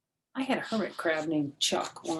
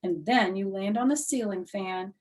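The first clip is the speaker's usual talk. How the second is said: excited rambling; 5 semitones higher, 6 dB louder than usual. Acted. Excited kid explanation.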